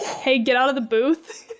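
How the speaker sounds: slow, laughing through a mock command; amused mock order to a stranger; laughing mock line. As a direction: giggle while you tell her off. Mocking the character's choice.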